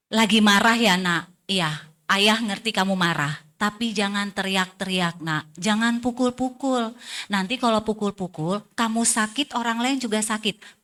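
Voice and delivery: put-on gently validate the child, then set limits; ayah menenangkan anak. Ayah menenangkan anak yang marah. (suara ayah yang pelan dan menenangkan)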